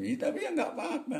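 talking through a high laugh; amused, laughter breaking into the speech. Real, not acted. Laughing at imagined Trump reaction.

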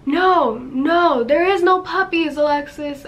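exasperated older brother, reenacted; retold scolding. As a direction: insist firmly, as if correcting a naive kid. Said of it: "he was scolding me".

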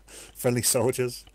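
chuckling through the words, slowed; amused self-correction, laughing. Real, not acted.

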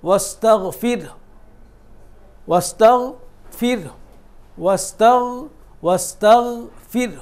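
ওয়াস্তাগফির drawn out slowly, lips rounded, the ending released softly; ওয়াস্তাগফির, stretch it and let the ending breathe out. Shown as a demonstration. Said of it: "মুখটাকে আপনি গোল করে ছেড়ে দেন".

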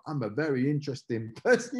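breaking into a laugh on interesting; laughing mid-line. Shown as a demonstration. Claiming to be interesting, cracking up with laughter. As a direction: try to say it straight and crack up. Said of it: "you can't even say it without laughing".

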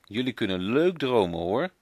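mildly amused mother's voice; mother teasing the children's dream; laughing mama. Acted. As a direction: say it with a hint of a laugh. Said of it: "mama zegt lachend".

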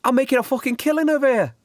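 high, fast gloating; gleeful gloating. Acted. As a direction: crow about the loot. Doxy gloating over pickpocketing.

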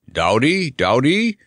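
a hint of a wailing camel; understated wail of a friend's name; mild wail. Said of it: "wailed the Comfortable Camel".

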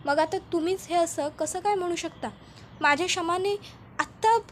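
frantic disbelief. Acted. Husband refuses wife's death.

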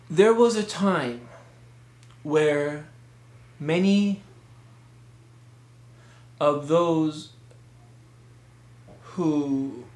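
halting speech with long gaps; too many pauses. Shown as a demonstration. Khatib starting a khutbah with far too many pauses. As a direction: stop dead after every word or two, slowly. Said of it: "try not to speak with too many pauses".

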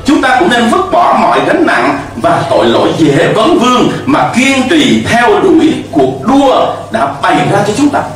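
ordinary talk, nothing marked

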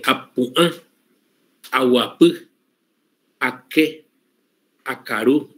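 each Guaraní word with the stress on the last vowel; Guaraní final stress. Shown as a demonstration. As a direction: lean on the final syllable of every word. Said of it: "voy a empezar a decir unas palabras y van a darse cuenta que todas terminan".

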